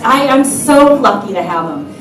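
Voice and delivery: slow, stretched-out mock southern drawl; imitated southern drawl. Wife boasting about her husband, badly faked southern drawl. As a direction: gush in a faked southern accent. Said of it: "I can't do your southern accent".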